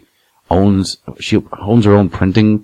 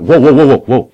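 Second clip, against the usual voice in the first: mock alarmed backing off; 6 semitones higher, 4 dB louder than usual. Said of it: "he went".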